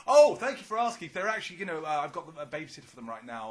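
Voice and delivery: high, loud, prim put-on voice; mock polite beggar. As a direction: play the gracious mother. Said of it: "she goes".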